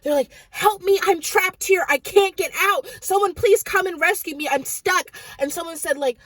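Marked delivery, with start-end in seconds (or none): 0.5-5.1 higher-pitched mock screaming for rescue; retold cry for help. Storyteller voicing trapped commenters, crying out for help. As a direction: imitate trapped people crying out. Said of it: "people were screaming and crying out for help".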